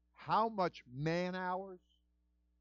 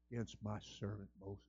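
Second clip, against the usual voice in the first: low, soft rebuke; stern God; 10 semitones lower, 15 dB quieter than usual. Acted. God rebuking Miriam, low and stern.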